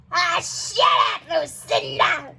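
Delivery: put-on old lady shouting back; mock shout. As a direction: tell her off hard. Old lady snaps at friend.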